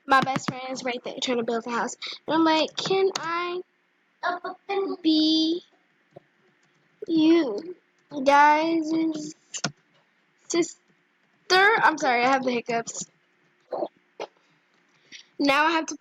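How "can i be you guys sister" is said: halting, one word at a time; typing aloud. Real, not acted. Asking strangers to be their sister, typing aloud. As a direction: voice each word as you type it. Spelling out her chat message.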